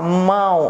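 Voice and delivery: "mão" low, with the ão sent through the nose; nasalized vowel. Shown as a demonstration. Teacher showing air leaves by the nose, "mão" nasalized. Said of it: "a gente fala assim".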